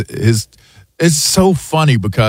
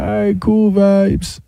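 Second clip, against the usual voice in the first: higher, slow mock Jamaican accent; Jamaican accent reply; 9 semitones higher than usual. Answering the pilot in a mock Jamaican accent. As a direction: play along in a Jamaican accent. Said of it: "I'm like".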